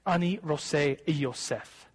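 Ani Rose Yosef spoken slowly, word by word; a teacher slowly demonstrating Ani Rose Yosef; slow Hebrew phrase. Shown as a demonstration. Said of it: "Are you ready?".

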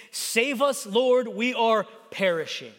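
slow, emphatic mild cry for help; spaced-out plea, understated. Acted. Disciples call Jesus in the storm, mild crying out. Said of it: "They cried out to Jesus".

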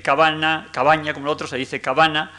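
cabana with plain n versus cabaña with ñ. Shown as a demonstration. Lecturer contrasts cabana and cabaña. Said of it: "en vez de decir".

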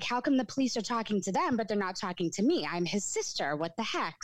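mad. Retold or imitated. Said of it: "I remember being so mad".

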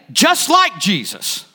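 JUST LIKE JESUS said slowly, every word weighted; emphatic repeat. Shown as a demonstration. Preacher repeats it for the congregation, slow emphasis on each word of "Just like Jesus". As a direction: drive home "Just like Jesus", stretched out slowly. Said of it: "You hear the emphasis?".

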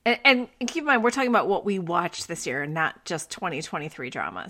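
lightly voiced teen boy; a hint of a bored teenage son. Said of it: "I don't think that you all talk like a teenage boy".

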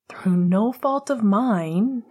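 slow, a touch of a grumble; mild annoyed grumble; grumbled. Acted. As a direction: grumble it back, put out. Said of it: "he grumbled back".

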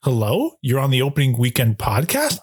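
"Hello?" and "podcast?" both lifted like questions; tentative host pickup, "podcast?" rising at the end; questioning phone greeting. Pretend. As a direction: answer the phone with a rise on "podcast?". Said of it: "I never answer it this way".

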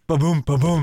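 spoken drum sting after a joke; vocal ba-dum punchline button; imitated rimshot.

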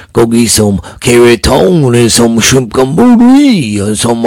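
slow, hammed-up Louisiana drawl, a bad impression; bad Louisiana accent. Podcast host mocks his Louisiana cousin, bad slow Louisiana accent. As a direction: lay on a cheap Cajun Louisiana accent. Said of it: "that's a really shitty Louisiana impers".

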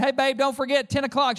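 sing-song nag about the time; insistent reminder. Retold or imitated. Husband reminding a third time, pushy.

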